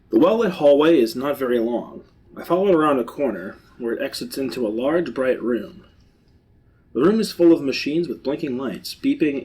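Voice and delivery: measured read-aloud of a tale; storyteller describing a discovery; story narration. A narrator's reading. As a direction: narrate the scene steadily.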